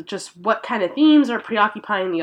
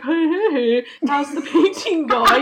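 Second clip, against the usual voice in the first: bright, high, casual greeting; breezy greeting; 5 semitones higher than usual. Retold or imitated. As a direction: greet him breezily, amused. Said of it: "is like".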